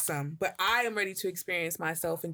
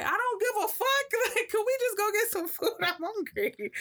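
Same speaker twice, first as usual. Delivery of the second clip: much higher, laughing exaggerated snap; hammed-up rant, laughing into hungry; mock outburst. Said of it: "I'm like".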